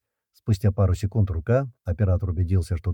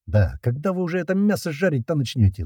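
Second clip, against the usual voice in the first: pleading; 7 semitones higher than usual. Acted. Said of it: "взмолился Слива".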